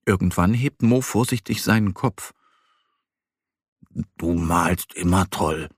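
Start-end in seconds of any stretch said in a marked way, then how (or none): 4.2-5.7 little bear, lower and earnest; low, sincere compliment. A narrator's reading.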